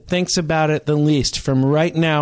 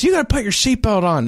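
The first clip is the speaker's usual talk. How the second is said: mildly imitated demand; 5 semitones higher than usual. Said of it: "And that's how he said it".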